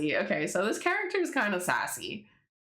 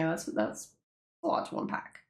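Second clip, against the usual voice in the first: hushed disbelief. Real, not acted. Repeating reaction.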